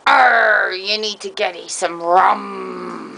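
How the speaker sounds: hammy pirate growl. Pretend. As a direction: ham up a bad pirate. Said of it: "that was so bad".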